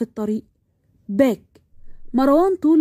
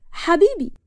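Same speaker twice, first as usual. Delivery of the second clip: higher-pitched, worried lover's question; acted alarm, pitched up; concerned; 6 semitones higher than usual. Worried fiancée enters.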